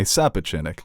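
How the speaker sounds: Sapochnik with the O turned into an A, "sa-PATCH-nik"; Long Island accent, Sapochnik flattened to "sa-PATCH-nik". Shown as a demonstration. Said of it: "I do the Long Island accent".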